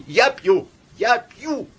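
high, loud desperate cry; broken cry. A narrator's reading. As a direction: cry out in despair, voice breaking. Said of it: "надломленно и хрипло крикнула она". (надломленный отчаянный крик)

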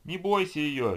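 loud, high call; shout. A narrator's reading. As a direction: yell across the room. Zombie shouts mid-fight.

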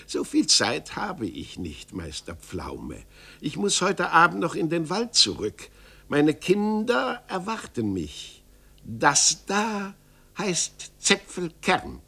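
put-on sly gnome revealing the child; mysterious little man. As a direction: drop the name like a secret. Little man explains, leaving.

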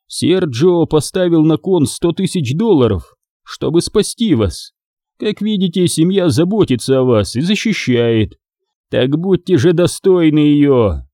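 lightly voiced stern mafia don; old mafia boss. Sergio lecturing the family.

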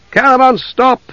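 high-pitched cry to stop; urgent shout. A narrator's reading. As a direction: call out sharply to break up a fight. Calling out to stop a fight.

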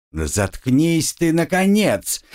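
fed up with the screaming, bark it. Acted. Tired torturer snaps at the screaming captive, irritated bark. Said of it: "рявкнула уставшая от криков Джина".

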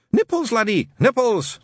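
put-on loud, impatient old Scot; testy. Shadwell losing patience with Newton, testy and loud. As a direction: snap it testily. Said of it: "said the voice testily".

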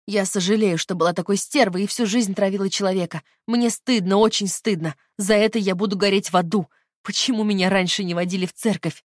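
loud, anguished confession; loud desperate repentance; shouting in her own voice. Acted. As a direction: cry out the remorse. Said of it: "Теперь Лина кричала своим голосом".

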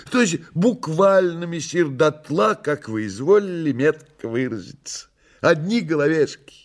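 high, fussy theatrical voice; Koroviev, woeful. Acted. Koroviev agreeing with messire about the ruins, high woeful voice. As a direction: lament high and obligingly.

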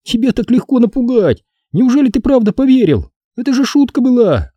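put-on high, gleeful girl's voice; girl gloating. A narrator's reading. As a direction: crow over the joke. Стеф смеётся над Дуаном. (злорадная девочка)

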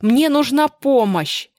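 loud, high, slow plea for help; desperate shout. Acted. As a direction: yell it at the driver. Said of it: "крикнула Анна". (громкий отчаянный крик)

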